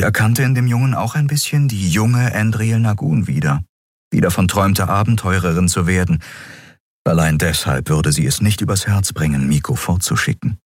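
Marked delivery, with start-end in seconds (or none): none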